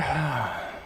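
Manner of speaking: low, soft sigh; real sigh. Real, not acted. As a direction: let out a quiet sigh. Sighs while asking for final thoughts.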